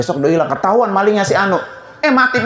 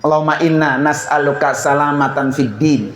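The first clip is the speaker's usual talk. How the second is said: prayer recitation; 4 semitones lower than usual. Acted. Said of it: "Ada namanya doa selamat".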